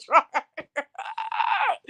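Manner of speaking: big laugh, then right; laughing shout. Real, not acted. Laughing after impression.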